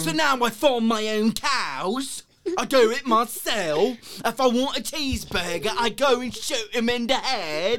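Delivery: slow, hammed-up British accent; mock British accent. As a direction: drag it out like a posh Brit, mocking. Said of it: "it's a little too British".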